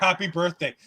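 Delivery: imitated unexcited congratulations; mock half-hearted greeting; backhanded birthday wish. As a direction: say it as a grudging afterthought. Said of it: "it's the most backhanded compliment thing".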